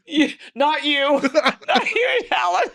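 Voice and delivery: very high, laughing imitation of a refusal; laughing mock rejection. Teller imitates door staff refusing made-up Alan, laughing high rejection.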